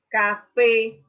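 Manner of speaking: café again, loud, landing on fé; stressed repeat. Shown as a demonstration. Teacher repeats café so students hear fé. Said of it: "aquí la sílaba tónica sería fe".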